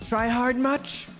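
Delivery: high spirit voice with echo. Shown as a demonstration. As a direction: sneer it like a ghost. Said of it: "I need more echo on that one".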